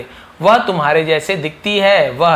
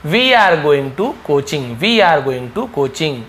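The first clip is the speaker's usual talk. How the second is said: each word stretched out slowly; slow, clear teacher demo; slow model reading; much slower than usual. Shown as a demonstration. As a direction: drag it out for the class to copy. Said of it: "teacher models sentence slowly".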